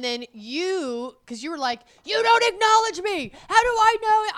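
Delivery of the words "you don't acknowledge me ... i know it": high, loud whiny parody; mock his complaint, pitched up. Wife mocks husband's complaint.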